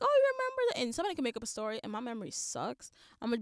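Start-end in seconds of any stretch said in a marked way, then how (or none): 0.0-0.8 mock overfriendly stranger. Imitating a stranger making up stories.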